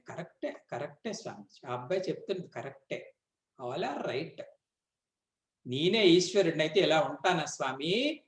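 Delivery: soft, hushed mock agreement; playful teasing guru. Guru gently teasing his doubting student, soft mock agreement. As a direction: tease the student gently, voice dropped low and quiet. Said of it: "గురువుగారు చిన్న, ఆ, సరసం ఆడారట".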